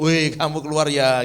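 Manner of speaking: a sharp, loud "caught you" call; mock dorm father calling out loud; loud scolding call. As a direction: bark it like the dorm father catching them. Dorm father catching the boys.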